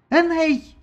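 high shrill scream of a name; hysterical shriek. A narrator's reading. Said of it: "истерично завизжала богиня".

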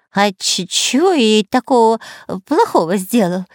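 a touch of panicky stammering; stammer, near tears; mild strained whine. A narrator's reading. Spy pleading about the cobra, mildly panicky. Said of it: "надрывался шпион Дырка".

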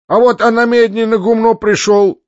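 high, loud peasant voice; discontented peasant. A narrator's reading. Malcontent peasant breaks his silence, high-voiced complaint. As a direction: pipe up high and aggrieved. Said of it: "заговорил другой мужик".

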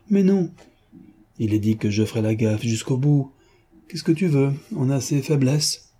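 lightly voiced mocking gentleman thief; a hint of a playful rogue gloating; lightly voiced jaunty Lupin; teasing Lupin. Lupin musing to Beautrelet.

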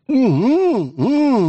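high muffled hum through a gagged mouth; muffled plaintive mooing. Acted. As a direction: whimper a long muffled mmm. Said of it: "мычала она".

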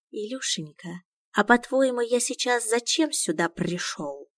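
mild mock-tender cartoon intonation; cartoon sing-song. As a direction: coo it like a cartoon hero's mother. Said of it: "повторил интонацию вопроса".

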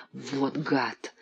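low hissed curse; through gritted teeth. A narrator's reading. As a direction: spit it out through clenched teeth. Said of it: "процедил тот сквозь зубы".

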